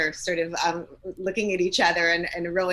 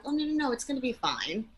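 dismissive reassurance; 6 semitones higher than usual. Retold or imitated. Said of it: "That wouldn't feel super validating".

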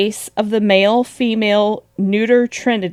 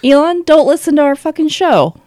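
higher-pitched playful telling-off, laugh breaking in; mock scolding; 5 semitones higher than usual. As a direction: jokingly warn off an unwanted listener. Addresses absent Elon as if listening.

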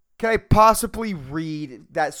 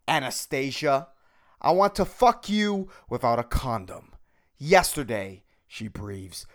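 podcasting-voice erotica reading. Shown as a demonstration. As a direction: read erotica in a punchy podcast voice. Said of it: "read this with my podcasting voice".

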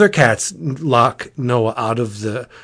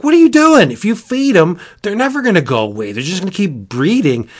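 exasperated Noah; 6 semitones higher, faster than usual. Retold or imitated. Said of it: "he's like".

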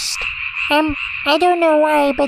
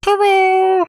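copying the man's voice; 3 semitones higher than usual. Retold or imitated. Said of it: "that's good".

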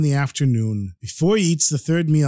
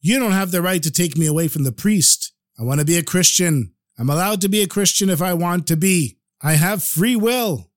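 mock shouting; 3 semitones higher than usual. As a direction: protest indignantly at being dragged away. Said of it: "Start shouting at them".

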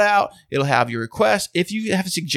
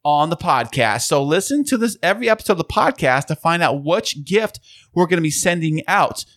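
infomercial. Acted. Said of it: "You totally sound like an infomercial guy right now".

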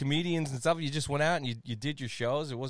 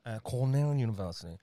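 creepy announcer voice. Acted. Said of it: "I'm trying to get us from this voice now".

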